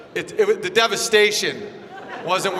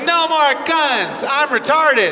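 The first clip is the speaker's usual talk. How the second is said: slow, higher mock voice; mocking impression; 6 semitones higher, 4 dB louder, slower than usual. Comic mocking David Hogg to the crowd, slow higher mock. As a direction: ham up the slow pleading.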